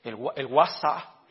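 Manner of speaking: "WhatsApp" said as drawn-out "wa-SAA"; imitated "guasá" pronunciation. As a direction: drop the final p of "WhatsApp", stretch the end. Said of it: "dijo uno". ("WhatsApp" dicho "guasá", alargado)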